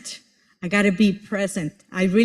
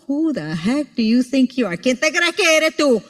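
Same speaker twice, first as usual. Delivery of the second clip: family scolding; 3 semitones higher than usual. Retold or imitated. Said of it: "I'm hearing my family right now".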